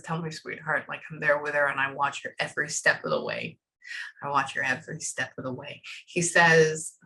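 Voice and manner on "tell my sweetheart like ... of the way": low, soft relayed tenderness; channeled message. Retold or imitated. Medium relays a late man's words to his sweetheart, low and tender. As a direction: pass on a loving word, low and quiet.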